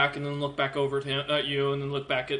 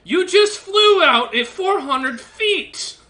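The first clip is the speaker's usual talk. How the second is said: higher, loud and slow disbelieving retort; incredulous shout; 10 dB louder, much slower than usual. Acted. Dwarf leader to the prisoner, a loud incredulous shout. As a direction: throw it back at them, outraged.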